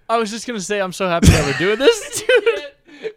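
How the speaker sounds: laughing. Real, not acted. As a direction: lose it at the end. Breaks into laughter.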